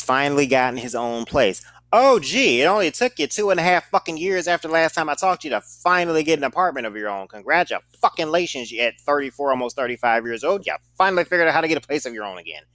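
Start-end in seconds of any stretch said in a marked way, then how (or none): 2.0-12.6 drip mock praise on a grown man; sarcastic congratulations. To the ex on his new apartment, sarcastic praise.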